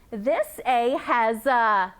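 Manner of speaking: slow, pointed this A; slow teacherly contrast on this. Shown as a demonstration. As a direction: stress this, point out the first A. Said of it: "I have A and A".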